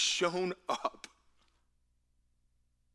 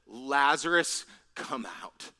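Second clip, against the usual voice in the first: name called loudly, then dropping away; measured mock cry, loud only on the name; restrained calling out; slower than usual. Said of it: "he cried out with a loud voice".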